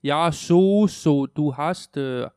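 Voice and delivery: loud, drawn-out mock German; German accent. Shown as a demonstration. Showing how to imitate in German class, German accent. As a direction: ham up a German accent, leaning on the words. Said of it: "man skal imitere også".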